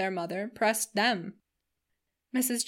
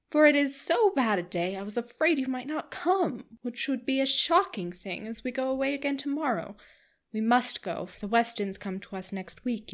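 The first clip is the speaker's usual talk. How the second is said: gushing, higher society lady, talking on and on; chattering Missus Palmer; 3 semitones higher than usual. Acted. Missus Palmer gushing to the Dashwood sisters, higher and eager. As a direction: bubble over like a giddy hostess.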